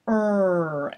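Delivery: "Er" with tongue pulled back, tip touching nothing; pulled-back R demo; held R sound. Shown as a demonstration. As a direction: demonstrate the R. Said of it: "And in R".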